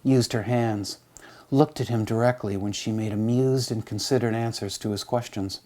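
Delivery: measured, unhurried reading of a poem. Acted. Reads a poem aloud.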